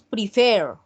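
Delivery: "prefer" with the final syllable FER stressed; stress on last syllable. Shown as a demonstration. Teacher showing students a strong ending, "prefer" stressed on FER. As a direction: lean on the end of "prefer". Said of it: "esa pronunciación fuerte".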